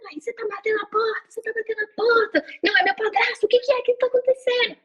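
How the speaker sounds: high panicked mock yell; frightened woman yelling for her mother at night; retold panicked yelling. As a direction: call for mom in a panic. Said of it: "comecei a gritar minha mãe".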